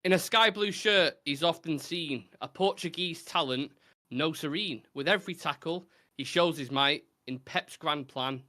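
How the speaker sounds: measured rhyming recital; recited verse. Acted. Host reciting a rhyming football clue, measured verse delivery. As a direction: read it out like a poem.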